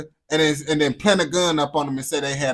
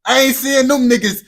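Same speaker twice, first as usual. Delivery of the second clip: loud calling out; 7 semitones higher, 7 dB louder than usual. Real, not acted. Calling out for the Tottenham Mandem.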